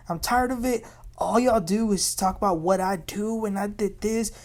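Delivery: loud outburst. Retold or imitated. Sutton snapping at the women, retold exasperated outburst. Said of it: "Sutton then gets very loud".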